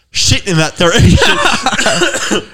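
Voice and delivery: Australian bloke voice broken by laughter; laughing mock bloke. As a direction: laugh your way through the local's order. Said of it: "He's just like".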